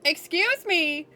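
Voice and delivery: slow, high disbelief; drawn-out stunned excuse me. Real, not acted. Reacting to gift.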